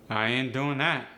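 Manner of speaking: punchy AAVE intonation, dropping on that. Shown as a demonstration. Teacher showing dialect intonation against standard, AAVE. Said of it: "end with a rising or falling intonation".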